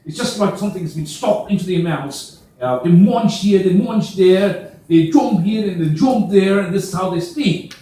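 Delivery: chewed, mock Australian accent. Shown as a demonstration. Trainer mimics how Australians munch words, in Australian accent. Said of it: "they call themselves the Australians".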